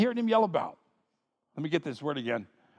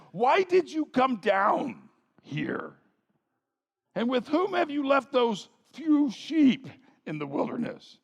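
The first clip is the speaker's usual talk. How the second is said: mild scolding, drawn out with scorn; angry older brother; 3 semitones higher than usual. Acted. Oldest brother Eliab scolding David at the battle, mildly angry. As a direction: dress down a kid brother, understated anger. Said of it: "Eliab's anger was aroused against David".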